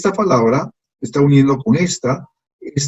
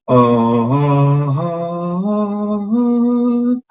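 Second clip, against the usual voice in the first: pitch demo; 4 semitones higher, much slower than usual. Shown as a demonstration. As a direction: climb the pitch on each ah. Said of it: "la diferencia en el tono".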